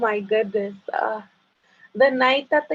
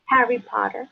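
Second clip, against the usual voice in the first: Spanish-accented name. Shown as a demonstration. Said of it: "I just wanna hear you say it".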